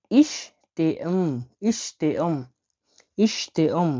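ইশতেম drawn out very slowly; slow model word. Shown as a demonstration. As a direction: stretch ইশতেম so the class can copy. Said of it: "কিরগিজে কি বলবেন".

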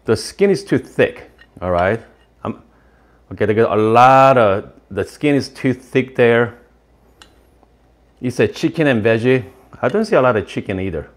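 chewing between words; talking around food; mouth full of dumpling. Real, not acted. Seen 0: Took a bite just before; cheek and jaw show chewing while talking.

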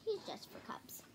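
hushed secret whisper. A narrator's reading. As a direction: breathe it like a secret. Papa confides secret to Sister.

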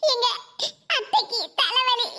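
slow, tearful explanation. Acted. Wife explaining mother-in-law's headache, tearful. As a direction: drag it out through tears. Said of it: "எதுக்கு அழுதுகிட்டு இருக்கா?".

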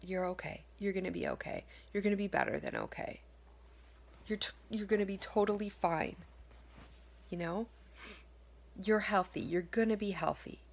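reassuring self-talk. Shown as a demonstration. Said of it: "We want to be saying".

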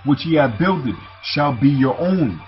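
declaimed royal decree, in measured phrases; scripture reading. Acted. Preacher reading Demetrius's letter to Simon, scripture reading. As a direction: read the king's letter out to the room.

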